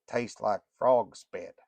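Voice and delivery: slow drawling grumble, a touch of menace. Acted. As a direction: Morlock grumbling about the dressing, slow drawl. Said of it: "In his slow drawl".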